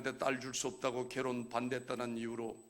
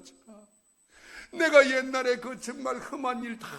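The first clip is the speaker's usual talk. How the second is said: anguished protest; 8 semitones higher, 6 dB louder than usual. Retold or imitated. Complaining to God retold.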